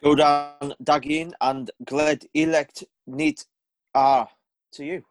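garbled words played in reverse; backwards speech. Real, not acted. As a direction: sounds like talking backwards. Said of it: "that just sounded like you were talking backwards".

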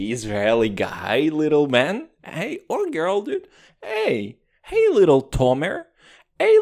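mock-tough taunt to kids. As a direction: jeer at the little ones. Taunting imagined children.

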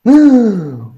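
hammed-up intake of shock; acted shocked gasp. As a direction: gasp as if bad news just hit. Acted shock at bad news.

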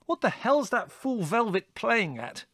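high, slow, indignant demand; exasperated outburst, pitched high; outraged. A narrator's reading. Larry outraged at the colonel.

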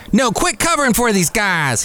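high-pitched indignant outburst, imitated; mock shout. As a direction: imitate a senator blowing up in protest. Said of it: "he shouted".

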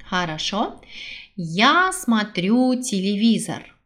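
ordinary delivery

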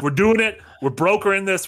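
half-shouted hopeful cheer; excited cheering. Retold or imitated. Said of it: "I screamed 'cause I was like".

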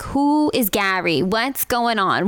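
a hint of a puzzled mom, slow; imitating mom. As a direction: lightly voice her confused mother, drawn out. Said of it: "I love the voice you make for".

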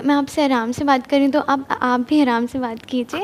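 fast, firm but restrained telling-off; a touch of irritation, rushed; mild anger on request. Shown as a demonstration. Student shows the host how she scolds someone, firm and quick. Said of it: "अब थोड़ा, थोड़ा गुस्सा मुझे नज़र आ रहा है।".

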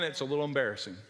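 ordinary talk

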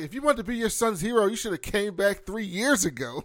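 high, loud reproach; mock scolding. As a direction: scold him for showing up late. Voicing angry wife.

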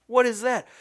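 naive Dewey voice. Retold or imitated. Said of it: "And he's like".

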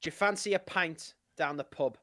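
simple British phrase to copy; unforced British demonstration; British accent. Shown as a demonstration. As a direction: model British speech for a learner. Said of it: "I'll start you simple".

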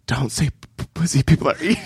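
imitated strained composure, stumbling on the word; earnest, trying calm. Imitating Eddie Murphy at dinner, very serious and trying to stay calm. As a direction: earnestly try to say it calmly. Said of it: "very earnestly ... trying to calmly say".

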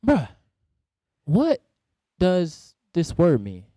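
halting, word-by-word question; retold puzzled question. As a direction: spell out the question slowly, with pauses. Retells confronting his friend about word.

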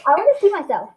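high, laughing request. Real, not acted. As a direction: say it through giggles. Laughing at own image.

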